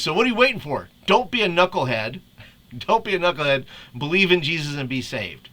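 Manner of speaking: lightly hammed-up goofy reading; Homer Simpson reading. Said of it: "In the voice of Homer Simpson".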